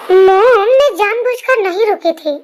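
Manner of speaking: loud, pleading call of Mom; a daughter crying out to defend herself; whiny protest. Acted. Daughter pleads after mother scolds. (ज़ोर से शिकायती पुकार)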